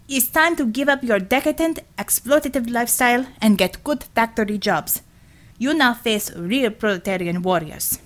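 a hint of a stern comrade lecturing the enemy; revolutionary heroine lightly challenging street thugs, mock-stern; lightly voiced revolutionary heroine. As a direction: declaim it like a mild party slogan, only slightly voiced. Red Savior challenges the Rebs.

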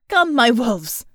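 loud rallying shout; rally the troops, full voice; battle cry shout. A narrator's reading. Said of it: "she shouted in English".

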